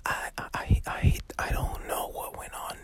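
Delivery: unvoiced whisper into the ear; mock secret whisper to his co-host. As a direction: lean in and whisper it. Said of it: "let me whisper something in your ear".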